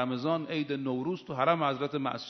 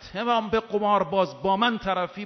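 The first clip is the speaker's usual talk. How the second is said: louder, higher quoted rebuke; retold angry challenge; 4 semitones higher, 4 dB louder than usual. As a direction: voice an angry confrontation, pitch and volume raised. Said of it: "با خشم این جمله رو گفت".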